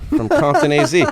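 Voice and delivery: jokey rap-name brag; mock rapper hype. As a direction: announce yourself like a gangsta rapper, joking.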